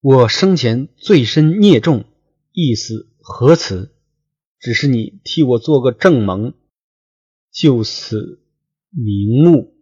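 a touch of tearful wailing, storyteller style; 说书人略带哭腔; crying plea. Acted. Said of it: "大哭曰".

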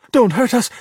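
high-pitched, fearful plea; frightened shout. A narrator's reading. Giulia faces a sea monster, frightened shout. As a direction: call out in alarm, pitched well up. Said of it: "she shouted".

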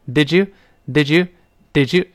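"Did you" blended with a clear j sound; teacher's model of "Did you" run together; linked did you. Shown as a demonstration. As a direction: slowly repeat "Did you", the middle j crisp and clear. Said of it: "这么一个声音啊".

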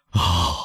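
understated groan-like "ah" of torment; a pained cry, held back in volume; anguished crazed cry. A narrator's reading. Villefort cries out alone in his carriage, anguished. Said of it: "痛苦和癫狂的叫喊".

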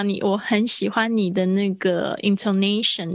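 ordinary talk

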